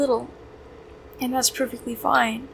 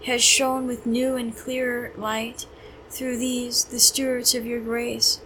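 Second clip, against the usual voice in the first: measured, reverent recitation of a hymn; prayer reading. Real, not acted. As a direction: read it as a prayer, phrase by phrase.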